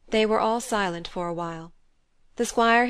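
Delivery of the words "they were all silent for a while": usual speaking voice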